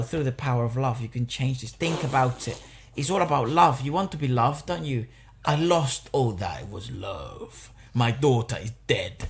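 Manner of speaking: mock earnest speech, slowing and dropping near the end; unconvincing hero speech. Mimicking Thor's speech to the villain, mock earnest plea. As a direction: imitate a weak, sentimental plea. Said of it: "gives him this shitty speech".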